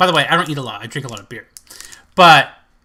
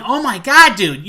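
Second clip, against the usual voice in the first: cringing reaction; 4 dB louder than usual. Retold or imitated. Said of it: "It makes you cringe".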